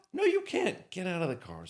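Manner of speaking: high, loud command; retold stern order; mock order. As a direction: bark the order. Members ordering drunk out.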